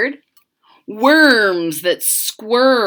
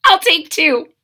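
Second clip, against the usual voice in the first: put-on higher girl voice, pleased; little girl; 6 semitones higher than usual. Mitzi picks two bats: higher, pleased girl voice. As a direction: claim the bats gladly. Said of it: "said Mitzi".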